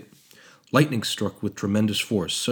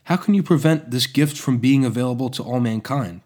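impassioned and louder; passionate; 4 semitones higher, 7 dB louder than usual. Acted. Apprentice arguing for mankind's gift, passionately. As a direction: plead the cause with fire. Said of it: "He spoke passionately".

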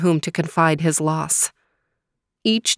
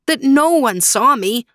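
higher, sorrowful voice; raised and mournful; sadly; 7 semitones higher, 5 dB louder than usual. Acted. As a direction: insist sadly that no one saw. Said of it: "Faraz sadly shook his head".

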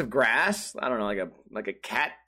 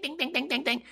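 doorbell imitation; 11 semitones higher, 6 dB quieter than usual.

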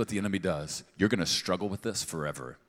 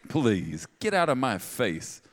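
much higher, louder mock woman's brush-off; sassy woman rejecting; 7 semitones higher, 5 dB louder, slower than usual. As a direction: play an offended woman telling him off. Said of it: "If I was a woman and you proposed like that".

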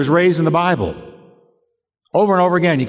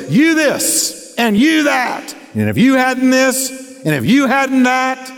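mock argument; 7 semitones higher, slower than usual. Shown as a demonstration. Pastor acting out a couple's accusing fight, shouting. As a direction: hurl the accusations back and forth. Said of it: "It goes like this".

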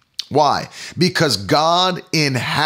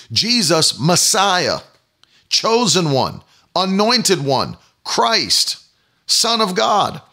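crying out; 4 semitones higher, slower than usual. Acted. Beggar crying out titles.

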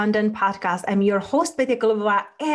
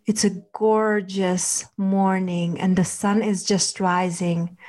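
guided meditation. Acted. Leads a relaxation visualization.

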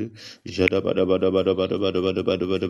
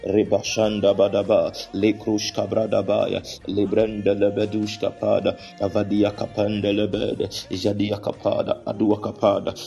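speaking in tongues. Real, not acted. Prayer session, glossolalia.

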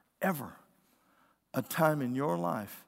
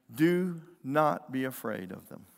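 slow, deliberate order; each word laid down slowly as a command; firm command. Retold or imitated. Preacher voices the Lord's order to his servant, slow firm command. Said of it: "it's a command, not a suggestion".

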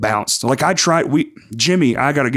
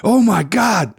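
put-on high, louder, failed South African accent; bad South African accent; 12 semitones higher, 4 dB louder than usual. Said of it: "I can't do a South African accent".

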